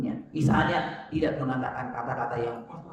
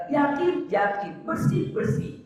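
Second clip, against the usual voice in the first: high, insisting repetition; eager insistence; 12 semitones higher, slower than usual. Retold or imitated. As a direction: assure the kiai eagerly. Student insists the door is clean.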